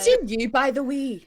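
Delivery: put-on slow Glaswegian phrase, Scottish accent. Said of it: "in a proper strong Scottish accent".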